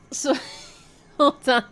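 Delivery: high, loud, laughing through words. Real, not acted. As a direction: giggle while trying to regroup. Laughing while composing herself.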